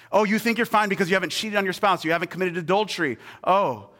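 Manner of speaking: high, loud mock challenge; Jesus. Jesus confronting listeners on the Mount, high mocking challenge. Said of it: "Jesus started talking and he said".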